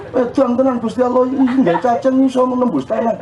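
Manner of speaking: high, excited voice of amazement; childlike wonder. Retold or imitated. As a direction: marvel like a small child at a worm. (anak kecil takjub dengan suara tinggi)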